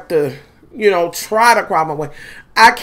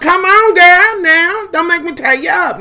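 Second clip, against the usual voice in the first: coaxing scale; 9 semitones higher than usual. Pretend. Begging her scale for a good number, higher pleading. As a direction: coax it like a stubborn pet.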